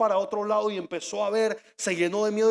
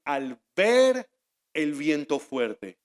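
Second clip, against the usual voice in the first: "ver" lifted and drawn out, then a pause; stress on VER; 5 semitones lower, much slower than usual. Shown as a demonstration. Preacher correcting the translation, stress on "ver". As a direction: set "ver" apart, then drop for "el viento fuerte". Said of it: "sino que dicen".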